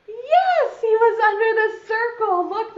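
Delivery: high, loud burst of triumph; excited reveal. Real, not acted. Teacher tells children they found the butterfly, excited. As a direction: celebrate the find with a big jump in pitch.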